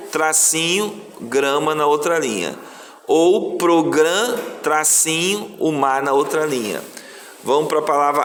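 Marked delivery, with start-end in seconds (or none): 3.6-4.4 "program" stretched up to the break; drawn-out teacher's dictation of "program"; syllable by syllable. Shown as a demonstration. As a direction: say "program" slowly, holding the last syllable. Teacher shows where word splits.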